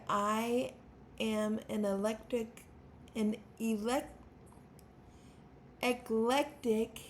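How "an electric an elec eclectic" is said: stammering. Real, not acted. Introducing herself as a songwriter on her channel, stammering. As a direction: stumble and restart, with pauses between tries.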